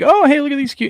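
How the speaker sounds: high, cooing mock delight. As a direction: pretend to be charmed by the cute photo. Imitating viewer's reaction.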